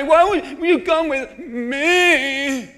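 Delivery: Naomi's lament. Retold or imitated. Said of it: "I'm gonna say the way she did".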